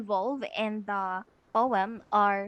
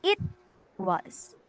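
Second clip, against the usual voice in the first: "it" set apart and stressed, then "was" dropped lower; uneven stress; 3 semitones lower than usual. Shown as a demonstration. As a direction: punch "it", pause, let "was" fall. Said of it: "It's not".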